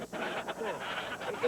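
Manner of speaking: usual speaking voice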